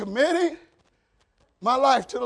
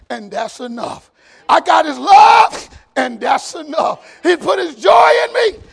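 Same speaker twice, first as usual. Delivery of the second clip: put-on old Black preacher; 5 semitones higher, 9 dB louder, slower than usual. Preacher imitating an old preacher for the congregation, drawn-out call-and-answer. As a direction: stretch the key words like an old-time preacher. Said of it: "learn how to preach like a black man".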